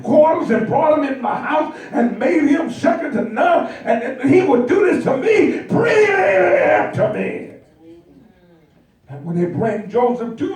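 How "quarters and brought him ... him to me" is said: enraged master. Acted. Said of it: "he's boiling, he's enraged".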